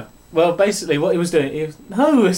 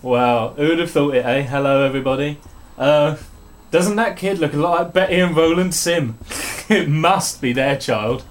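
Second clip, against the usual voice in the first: best man speech. Pretend. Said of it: "in the style of a best man speech".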